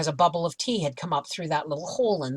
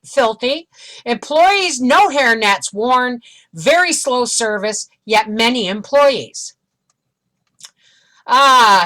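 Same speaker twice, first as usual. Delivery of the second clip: higher, emphatic reading voice; review read-aloud; 4 semitones higher, 5 dB louder than usual. Acted. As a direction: read out the complaints point by point. Reads online reviews aloud.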